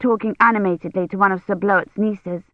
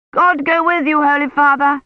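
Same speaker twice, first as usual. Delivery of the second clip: higher, raised farewell call; calling after; 8 semitones higher, 4 dB louder than usual. A narrator's reading. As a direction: send the blessing after a departing rider. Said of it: "called after him".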